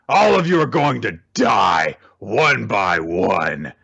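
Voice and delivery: lightly voiced boss villain, drawing out the last words; acted villain threat. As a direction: threaten the captives theatrically. Villain Queen threatening his captives.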